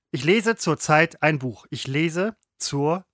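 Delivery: slow, measured "zur Zeit" as two words; deliberate word separation. Shown as a demonstration. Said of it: "Die Betonung ändert sich sogar".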